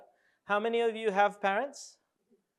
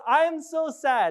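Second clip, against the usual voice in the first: slow, drawn-out mock sad line, still upbeat; saddest voice; 5 semitones higher, 5 dB louder, much slower than usual. Shown as a demonstration. Audience exercise, saying sad words while smiling. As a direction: try to sound sad with a huge smile. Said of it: "say in your saddest voice".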